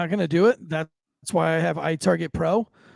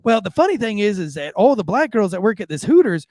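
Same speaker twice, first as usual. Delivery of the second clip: lightly imitated Southern waitress, louder; a hint of Southern twang; Southern accent; 4 semitones higher, 5 dB louder than usual. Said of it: "real Southern accent".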